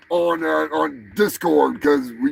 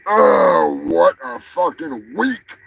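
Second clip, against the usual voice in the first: shouting; 4 semitones lower, slower than usual. Acted. Ranting about his week.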